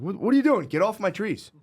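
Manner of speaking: high, loud indignant yell; angry dad. Retold or imitated. Grandpa yelling at kids picking his tree leaves, high and loud. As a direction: snap at the kids like a protective grandpa.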